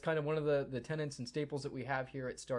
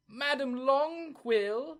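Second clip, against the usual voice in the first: much higher, louder and slow call across the gate; 14 semitones higher, 8 dB louder, much slower than usual. Acted. Attendant calling his supervisor over, long loud call. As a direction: shout for the boss across the yard.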